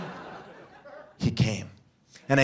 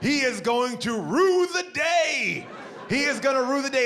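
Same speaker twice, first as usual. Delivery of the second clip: mock vengeful vow; 8 semitones higher than usual. Comic vow of revenge.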